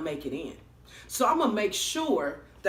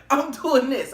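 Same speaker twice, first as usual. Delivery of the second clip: laughing; 5 semitones higher, 7 dB louder than usual. Real, not acted. Laughing while retelling.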